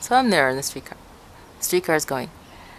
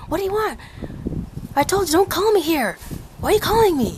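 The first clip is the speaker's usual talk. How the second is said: imitating an annoyed caller; 13 semitones higher, faster than usual. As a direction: mimic an annoyed man rapidly cutting off a caller. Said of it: "this is what I hear".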